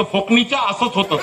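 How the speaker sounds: mock retort through a laugh; cheeky laughing comeback. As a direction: laugh it off at the doubter. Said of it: "त्याला म्हणायचं".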